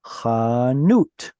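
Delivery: chanut with a guttural ch, khah-NOOT; Hebrew pronunciation. Shown as a demonstration. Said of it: "a store is called a".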